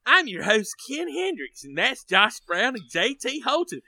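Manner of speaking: put-on playful Southern-accented podcast host. Host greets listeners and introduces co-hosts, Southern accent. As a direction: open the show in a mock Southern twang. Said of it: "to change accents".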